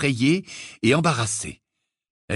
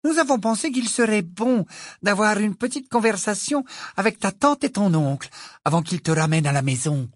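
slight smile; 8 semitones higher than usual. A narrator's reading. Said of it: "avec un léger sourire".

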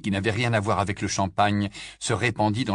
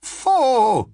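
hissing voice; 13 semitones higher, 6 dB louder than usual. Acted. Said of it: "de sa voix sifflante".

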